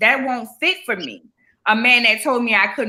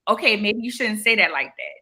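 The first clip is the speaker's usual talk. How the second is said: gentle suggestion; 4 dB quieter than usual. Retold or imitated. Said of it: "come to me in a way of".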